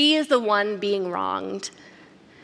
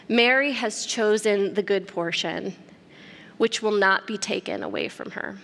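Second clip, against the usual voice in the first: gentle scolding; 3 semitones lower than usual. Acted. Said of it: "Martha's being scolded".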